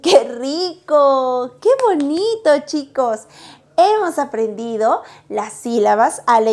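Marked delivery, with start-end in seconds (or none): 0.0-3.2 delighted praise. Real, not acted. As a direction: gush over the lesson. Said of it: "teacher praises class". (elogio entusiasta)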